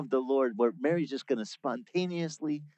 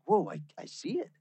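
amazed; 6 semitones higher than usual. Retold or imitated. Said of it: "It's just like".

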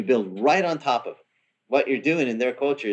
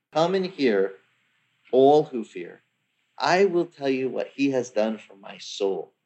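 solemn reading; slower than usual. Shown as a demonstration. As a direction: proclaim each phrase slowly. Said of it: "It is really neat to hear".

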